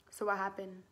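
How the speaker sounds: imitated serious question; all serious. Dad sits down with the couple, all serious. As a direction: play a serious parent asking for the facts. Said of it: "Like, all serious".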